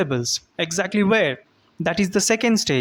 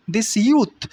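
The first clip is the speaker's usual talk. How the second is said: "youth" stressed, rising on it. Shown as a demonstration. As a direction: lean into "youth". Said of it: "putting accent on youth".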